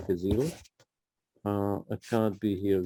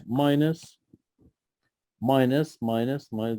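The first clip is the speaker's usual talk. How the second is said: each minus spoken separately with a rising tune; stress on minus; slower than usual. Shown as a demonstration. Teacher warning students about signs, stressing each minus. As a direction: tick off every minus one by one. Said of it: "Be careful for the signs".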